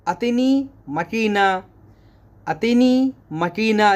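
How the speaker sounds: अतनी मकीना with stress on अतनी; Arabic model phrase. Shown as a demonstration. Teacher modelling Arabic for machine. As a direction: repeat अतनी मकीना clearly. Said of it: "teacher models Arabic phrase".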